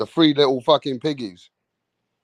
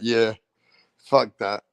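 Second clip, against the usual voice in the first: lazy Usyk; 4 semitones lower than usual. Retold or imitated. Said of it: "He's like".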